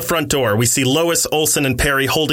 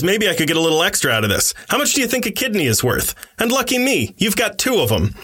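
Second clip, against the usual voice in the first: sneering thug; 6 semitones higher than usual. A narrator's reading. Knife thug taunting his victim.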